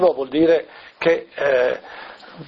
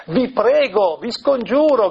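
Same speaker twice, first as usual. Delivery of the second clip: higher, pleading, a mild cry; Gesù; 4 semitones higher, slower than usual. Retold or imitated. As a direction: implore them earnestly, without shouting. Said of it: "gridava forte". (supplica accorata, grido appena accennato)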